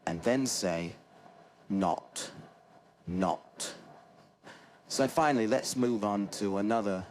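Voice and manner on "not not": "not" with rounded lips, British O; British accent. Shown as a demonstration. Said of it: "make a circle with your lips and then say".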